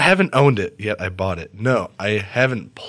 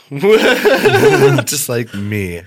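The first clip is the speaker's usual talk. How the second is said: laughing; 4 semitones higher, 7 dB louder, much slower than usual. Real, not acted. Laughing at the joke.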